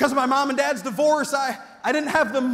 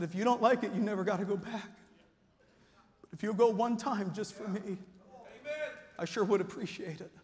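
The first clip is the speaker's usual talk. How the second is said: serious; 3 semitones lower, 7 dB quieter than usual. Retold or imitated. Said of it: "it got real serious".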